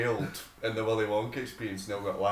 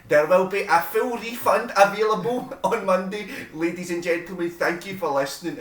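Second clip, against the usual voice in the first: higher, louder mock announcer to a crowd; pompous announcer; 8 semitones higher, 5 dB louder than usual. Mocking the organiser addressing angry customers, pompous. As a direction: ham up a stiff official announcement. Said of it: "He's like".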